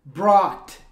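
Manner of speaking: "Brought" loud and isolated, gh silent; one loud, crisp model "Brought"; model pronunciation. Shown as a demonstration. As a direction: demonstrate "Brought" emphatically for students to copy. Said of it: "você fala brought".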